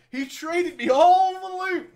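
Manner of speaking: loud, high, drawn-out gloat; gleeful. Real, not acted. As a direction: crow it with triumph. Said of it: "excited exclamation".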